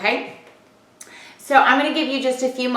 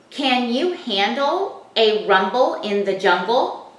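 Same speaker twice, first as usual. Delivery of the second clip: slow reading; slower than usual. Shown as a demonstration. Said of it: "now we want to read that sentence".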